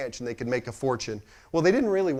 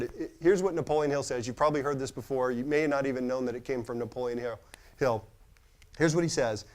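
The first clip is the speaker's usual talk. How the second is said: ordinary delivery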